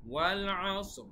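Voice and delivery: ওয়াল আসর chanted with two sukun stops; careful recitation. Shown as a demonstration. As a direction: recite ওয়াল আসর slowly, stopping on both consonants. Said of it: "আমাদের এইভাবে উচ্চারণটা করতে হবে".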